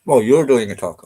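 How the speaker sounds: talking with mouth full. Real, not acted. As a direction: speak through a mouthful of food. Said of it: "Shouldn't eat with my mouth full".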